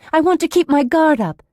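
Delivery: high, loud defiance; panicky, forceful insistence; agitated refusal. A narrator's reading. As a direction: resist in rising alarm. Patient resisting sedation, agitated.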